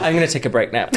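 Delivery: laughing through the words; laughing counsellor. Pretend. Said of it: "imagine me as a counsellor".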